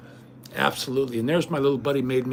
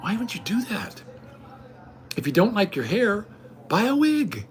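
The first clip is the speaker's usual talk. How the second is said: scornful retort; 6 semitones higher than usual. Retold or imitated. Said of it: "And I'm like".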